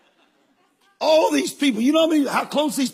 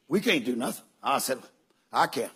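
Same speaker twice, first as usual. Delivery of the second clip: lower, softer; low quiet; 9 semitones lower, 5 dB quieter than usual. Retold or imitated. Preacher and doctor over the dead man, low quiet. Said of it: "the doctor goes".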